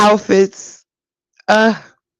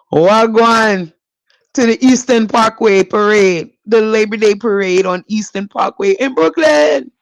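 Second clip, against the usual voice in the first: playful put-on Caribbean accent. Podcaster hyping the Brooklyn Labor Day parade, playful Caribbean accent. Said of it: "Don't laugh at my accent".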